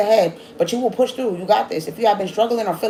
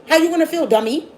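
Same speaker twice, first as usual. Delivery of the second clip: higher, louder taunting repeat; louder scolding repeat; 6 semitones higher, 3 dB louder than usual. Acted. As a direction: push it harder the second time, taunting.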